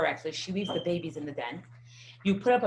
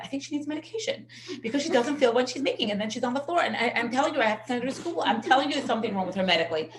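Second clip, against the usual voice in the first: frantic mother; 4 semitones higher, faster than usual. Retold or imitated. Frantic mother pleading with the doctor.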